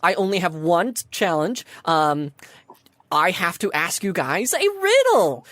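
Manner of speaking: lightly voiced chirpy gatekeeper; perky sphinx greeter. Sphinx telling entrants about her riddle, lightly perky. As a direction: cheerily announce and reassure, a touch perky. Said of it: "goes back to a perky self".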